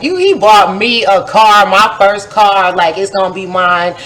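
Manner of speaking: lively, bubbly retelling of good news; excited bragging. Retold or imitated. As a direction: show off the new car, thrilled. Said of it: "I was so excited".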